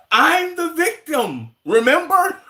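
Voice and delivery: high, slow, whiny mock girl voice; whiny victim girl. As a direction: play the victim, hammed-up. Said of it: "He sound like that one girl".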